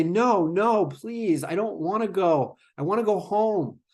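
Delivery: a light imitation of a begging child; pleading child. Child escalates, begs to stay.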